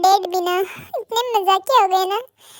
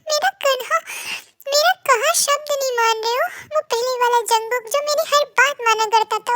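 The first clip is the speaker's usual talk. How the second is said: mock crying mother; 3 semitones higher than usual. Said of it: "आप रो मत".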